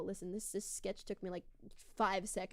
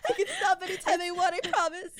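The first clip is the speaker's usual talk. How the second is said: mock promise; 8 semitones higher, 8 dB louder than usual. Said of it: "echoing the joke".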